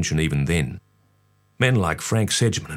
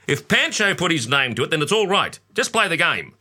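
father; 10 semitones higher than usual. A narrator's reading. Father voiced in story.

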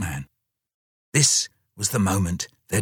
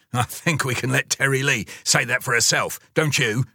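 stern; 4 semitones higher than usual. Acted. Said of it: "said the dog rather sternly to Mum".

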